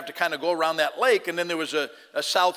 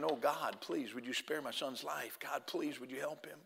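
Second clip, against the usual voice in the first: hushed, much softer pleading to God; desperate prayer; 2 semitones lower, 14 dB quieter than usual. Retold or imitated. Father praying for his injured son at the crash, hushed desperate plea. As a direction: beg God under your breath for your son's life. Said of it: "you're just praying".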